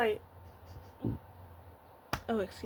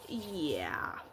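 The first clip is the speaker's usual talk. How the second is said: crying; 4 semitones lower, 12 dB quieter than usual. Retold or imitated. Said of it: "That's when I started bawling".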